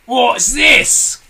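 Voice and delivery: startled loud gasp; Mr Twit gasping. A narrator's reading. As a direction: gasp it in shock. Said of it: "gasped Mister Twit".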